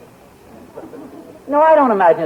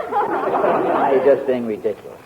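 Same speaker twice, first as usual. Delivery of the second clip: laughing; 4 semitones lower, slower than usual. Real, not acted. Husband laughs off wife's teasing.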